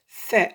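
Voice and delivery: "Fa" as Arabic tha, tongue tip between the teeth, loud; tongue-tip sound. Shown as a demonstration. Teacher demonstrates the tongue position, emphatic demo. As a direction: start "Fa" with the tongue out, then open. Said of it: "on sort le bout de la langue".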